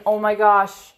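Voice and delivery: frightened pleading, voice breaking into tears by the end; a scared plea that cracks on the last words; tearful desperate prayer. Retold or imitated. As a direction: beg God to keep them safe, near crying. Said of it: "I'm sitting there thinking".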